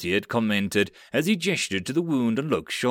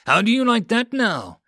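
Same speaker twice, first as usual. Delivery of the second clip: high, loud gloating shout; taunting yell; 10 semitones higher, 5 dB louder than usual. Acted. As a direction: yell it at her mid-firefight. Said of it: "Hitsu yelled".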